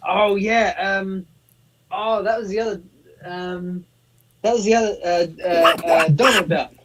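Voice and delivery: high, squawky cartoon duck voice; Donald Duck voice. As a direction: quack the words like Donald Duck. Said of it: "That's my Donald Duck impression".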